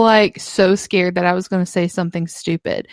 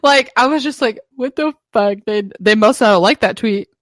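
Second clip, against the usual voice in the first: higher, put-on fretting voice; mock self-doubt; 4 semitones higher than usual. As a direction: play the insecure younger self. Mock inner monologue.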